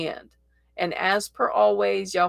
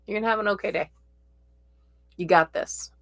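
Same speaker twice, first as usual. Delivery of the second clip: gentle reassurance; faster than usual. Retold or imitated. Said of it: "smiling and going".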